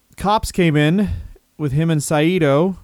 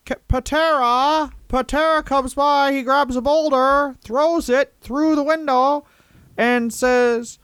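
much higher, slow put-on wrestler voice; Larry Zbyszko impression; 12 semitones higher, slower than usual. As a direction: pitch it way up and drag it out like a goofy wrestler. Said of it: "can you do it in a Larry Zbyszko voice?".

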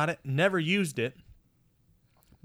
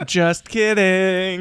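teasing take-back; 5 semitones higher, 7 dB louder, much slower than usual. Pretend. Teasing after a scary claim.

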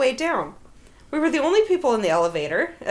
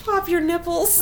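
laughing shout; 6 semitones higher than usual. Real, not acted. Laughing exclamation.

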